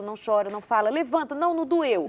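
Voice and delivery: string out a parent's brisk commands; dismissive parent. Acted. Parent silencing a crying child, lightly mock scolding.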